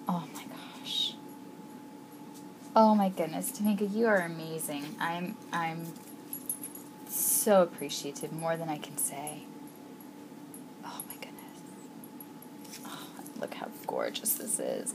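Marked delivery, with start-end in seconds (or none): 0.1-1.1 whispered, much softer; awed whisper. Real, not acted. Awe at box. 10.8-14.9 whispered, much softer; awed whisper. Real, not acted. Awe at box.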